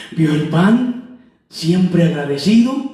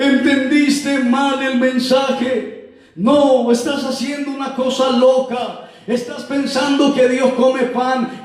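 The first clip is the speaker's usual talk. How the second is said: drawn-out indignant rebuke, slightly raised; stern acted scolding; 5 semitones higher, slower than usual. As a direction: reprimand him as a severe accuser. Severe man scolds the bread giver. (regaño severo e indignado)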